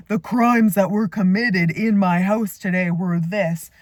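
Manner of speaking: loud mock-dramatic announcement; joking. Mom joking with son about the messy floor, mock-dramatic. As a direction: declare it like a pretend crime report. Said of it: "So I start making a joke".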